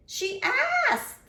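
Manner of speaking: high squeal. Acted. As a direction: squeal it in protest. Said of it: "the squid squealed".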